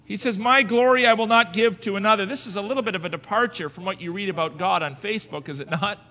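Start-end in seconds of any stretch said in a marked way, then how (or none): 0.4-2.2 loud, higher declamation of the verse; emphatic scripture reading. Acted. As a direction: proclaim the verse. Preaching at full force.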